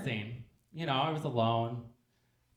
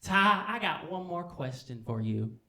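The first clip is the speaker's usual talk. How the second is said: slow, deliberate, higher question; Chevy; 4 semitones higher, 3 dB louder, slower than usual. Acted. Chevy turns back with one more question, slow and deliberate. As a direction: draw out each word of the question. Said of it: "and he says".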